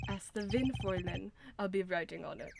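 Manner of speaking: lightly put-on German accent; badly faked German accent. Prosecutor answering the Fräulein, tentative German accent. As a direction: attempt a low German accent. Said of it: "how to do a German accent".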